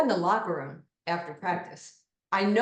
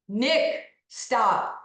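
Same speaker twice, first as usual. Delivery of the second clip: a louder, embarrassed hiss of Nick, stop; embarrassed hushing; 4 semitones higher, 5 dB louder than usual. Retold or imitated. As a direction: cut him off, half laughing, louder.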